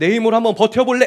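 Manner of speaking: high, loud, defiant, boastful challenging shout.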